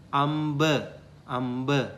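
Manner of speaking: amba said AM-ba with a voiced b; Pali word. Shown as a demonstration. Teacher giving the Pali word for mango. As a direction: model amba clearly. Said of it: "For example".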